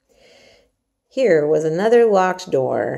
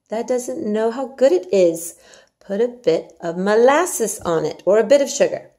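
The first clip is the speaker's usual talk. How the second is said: a touch higher and louder, lighter Martha voice; Yorkshire maid Martha, milder; 5 semitones higher, 4 dB louder than usual. Acted. Martha repeats her coaxing for the listener, lighter. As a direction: coax again, less hammed. Martha's line reread with molasses.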